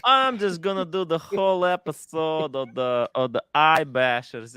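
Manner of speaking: lightly hammed-up Scotsman accent; mock Scottish accent. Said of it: "You sound like a sick fucking Scotsman".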